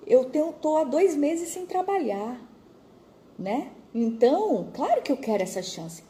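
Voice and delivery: grateful job seeker says yes eagerly. Retold or imitated. Eager reply to job offer.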